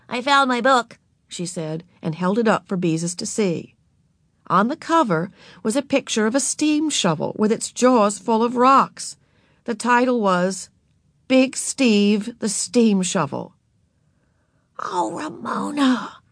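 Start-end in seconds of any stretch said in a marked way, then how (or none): 0.1-1.0 put-on little girl voice. A narrator's reading. Narrator voicing Ramona to Beezus, high and childlike. 14.8-16.2 dismayed whisper. A narrator's reading. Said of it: "whispered Beezus in dismay".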